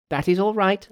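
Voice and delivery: high-pitched Monkey voice; reassuring Monkey. Acted. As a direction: promise protection in a high character voice.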